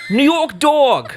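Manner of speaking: high, loud and slow through a laugh; laughing failed New York accent. Shown as a demonstration. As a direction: crack up mid New York impression. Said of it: "Try a New York accent".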